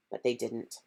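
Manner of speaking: usual speaking voice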